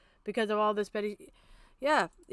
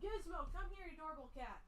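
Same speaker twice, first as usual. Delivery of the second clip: much softer, higher pet talk; cooing to the cat; 3 semitones higher, 27 dB quieter than usual. Real, not acted. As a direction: coo at a beloved cat. Talking softly to her cat.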